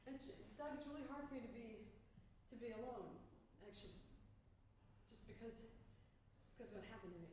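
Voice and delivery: softly guilt the husband; trailing off, quietly; quiet mock plea. Pleading with Doug.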